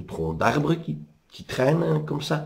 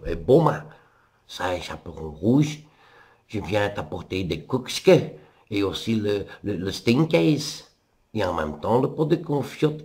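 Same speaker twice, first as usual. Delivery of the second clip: loup imitant la petite. Acted. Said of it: "parce qu'il imite sa voix".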